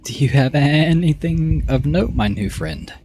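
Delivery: slow, high rising swoop, dropping at the end; drawn-out character voice. Acted. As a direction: stretch the words upward, then settle.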